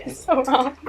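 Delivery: repeats it with a shaky laugh; laughing through tears. Real, not acted. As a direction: laugh it off while upset.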